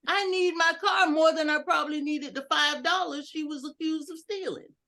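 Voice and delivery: mock indignant story. Shown as a demonstration. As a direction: act out the car theft outrage. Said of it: "writing up stories like".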